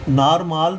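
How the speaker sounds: नारमाल with both vowels long aa; wrong long-vowel reading. Shown as a demonstration. Teacher shows students what can't be said, long-vowel नारमाल. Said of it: "तो नहीं बोल सकते".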